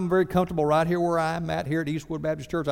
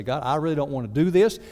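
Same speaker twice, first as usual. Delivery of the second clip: little fit; 3 semitones higher, 4 dB louder than usual. Retold or imitated. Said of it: "have a little fit with God".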